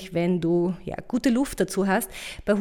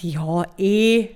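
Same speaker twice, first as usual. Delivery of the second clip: dismissive shrug; 2 semitones lower, 5 dB louder than usual. Retold or imitated. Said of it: "hätte ich mir gedacht".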